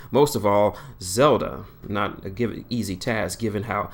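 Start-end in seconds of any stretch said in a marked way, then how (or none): none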